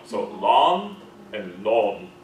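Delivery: long said slowly, first American then British vowel; slow demo of long, two accents. Shown as a demonstration. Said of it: "I didn't like the British one so much".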